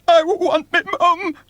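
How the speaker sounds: put-on very high, loud childlike whimper; small boy whimpering for his mum; whimpering child. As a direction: plead like a terrified little boy. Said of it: "whimpered William".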